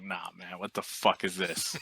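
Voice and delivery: a touched laugh at the gift; laughing disbelief. Retold or imitated. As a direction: players hand over a gift, soft laughing disbelief.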